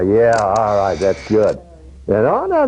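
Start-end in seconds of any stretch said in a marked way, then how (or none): 2.3-2.7 surprised. Real, not acted. Sudden catch during shoot.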